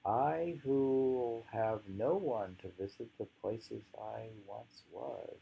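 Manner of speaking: slow, measured poem recital; unhurried poetry reading with long pauses. Acted. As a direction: read the verse slowly, letting lines settle.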